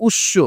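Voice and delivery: উৎস: ম dropped, শ doubled and nasalised; উৎস the Bangla way, nasal double শ; Bangla pronunciation. Shown as a demonstration. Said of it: "বাংলা ভাষায় উচ্চারণটা হচ্ছে". (বাংলা রীতিতে উষ্ম উচ্চারণ)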